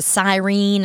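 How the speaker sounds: "siren" as sigh-REEN; imitated sigh-reen for siren; in-laws' pronunciation. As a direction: stretch the end of siren into reen. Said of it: "I've caught my in-laws before saying".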